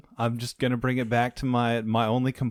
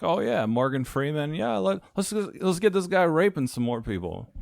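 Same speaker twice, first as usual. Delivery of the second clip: mock filmmaker; 6 semitones higher than usual. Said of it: "It's like".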